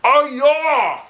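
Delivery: high, loud crazy whoop; wild whoop. Acted. Teacher acting crazy to scare attackers, loud whoop. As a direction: whoop it up like a madman.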